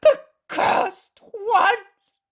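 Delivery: high, loud, slow curse; the man curses those who misled him; swearing. Acted. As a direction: spit it out in bitter fury. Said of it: "And he swears".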